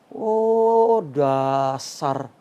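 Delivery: mock-outraged villagers scolding; scornful crowd. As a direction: sneer at him like an outraged villager.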